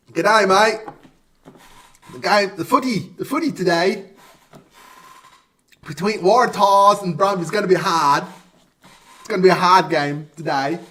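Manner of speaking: badly faked Australian accent, phrase by phrase; attempted Australian accent. Shown as a demonstration. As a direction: have a halting go at an Aussie accent. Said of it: "I can't do an Australian accent".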